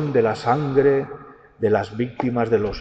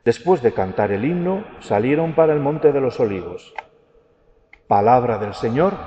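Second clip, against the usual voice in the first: liturgical reading. Acted. Proclaims the Gospel at Mass.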